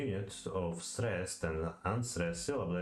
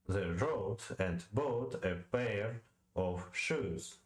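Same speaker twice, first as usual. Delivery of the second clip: slow iambic beat on "the road and bought a pair of shoes"; metrical read-aloud; slower than usual. Shown as a demonstration. Reader testing iambic rhythm, slowly stressing road, bought, pair, shoes. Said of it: "say the following line aloud".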